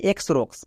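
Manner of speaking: এক্সরক্স said as "eks-roks" with an ex- sound; mock mispronunciation of এক্সরক্স; wrong pronunciation. Shown as a demonstration. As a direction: demo the common mistake এক্সরক্স. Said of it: "উচ্চারণ করে থাকি এক্সরক্স".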